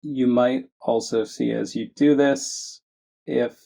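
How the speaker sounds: measured meditation guidance with long pauses; unhurried phrases, each given room to settle; guided meditation. Acted. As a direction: guide listeners gently, leaving space between phrases. Leads a guided meditation after chat.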